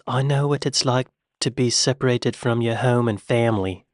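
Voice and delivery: put-on half-hearted British accent, American on "family"; Kevin Costner. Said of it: "he dropped the accent on the word family".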